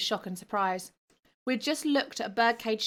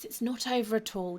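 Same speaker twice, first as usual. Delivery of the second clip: croaking; 2 semitones higher than usual. Acted. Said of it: "Jim Bragg croaked".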